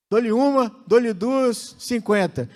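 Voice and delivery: loud auction call, counting down bids; auctioneer. Pretend. Pastor mimics auction bidding. (leiloeiro brincalhão)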